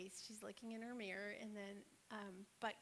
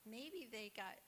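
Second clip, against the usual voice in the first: gentle coaxing; 3 dB quieter than usual. Retold or imitated. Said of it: "she just coaxed him along".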